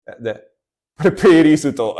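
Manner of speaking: put-on laughing, Japanese-accented playlist; playful Japanese accent on playlist. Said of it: "That's why I do the Japanese accent".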